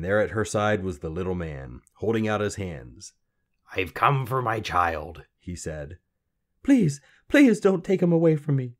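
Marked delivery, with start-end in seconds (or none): 3.7-5.2 menacing little man. A narrator's reading. Little man claiming the queen's child, menacing. 6.6-8.8 loud, high-pitched desperate plea; begging. A narrator's reading. Mother begging the little man for her baby, desperate. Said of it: "she begged".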